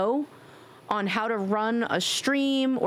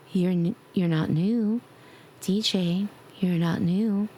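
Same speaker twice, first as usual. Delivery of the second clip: gentle; 3 semitones lower, slower than usual. Pretend. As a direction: tell them off tenderly. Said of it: "I'll just be like, gentle ones".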